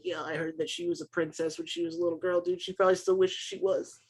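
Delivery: hushed snide aside; whispering. Acted. Bully's friend nudging him about the princess, whispering. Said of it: "Why are you whispering?".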